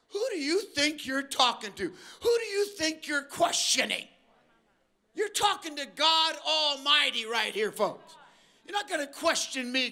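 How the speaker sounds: a hint of a stern, rising divine rebuke; God demanding to know who dares question him. Preacher voicing God, stern rebuke to the questioner. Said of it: "God said".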